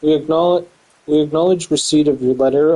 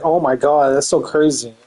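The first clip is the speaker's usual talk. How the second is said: sarcastic. Retold or imitated. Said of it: "I'm saying sarcastically".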